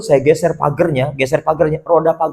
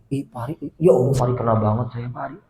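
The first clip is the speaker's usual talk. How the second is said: soft, sheepish aside as a guest; mock-embarrassed murmur; ashamed listener, said softly; embarrassed audience member; 6 semitones lower, 8 dB quieter than usual.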